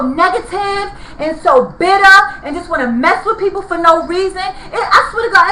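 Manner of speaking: crying shout through tears; real sobbing rant; real tearful outburst. Real, not acted. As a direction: voice breaking as the anger spills over. Grieving widow breaks down ranting.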